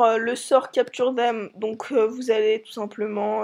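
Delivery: hoarse voice. Real, not acted. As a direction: voice cracking and rough. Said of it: "j'ai la voix cassée". (voix cassée)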